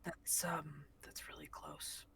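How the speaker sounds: rough, groggy just-woken voice; groggy sleep voice. Acted. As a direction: mumble it half asleep. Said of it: "very deep, rough, groggy sleep voice".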